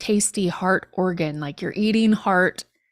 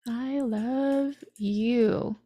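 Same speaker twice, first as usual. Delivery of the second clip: tender slow; 2 semitones higher, 4 dB quieter, much slower than usual. Shown as a demonstration.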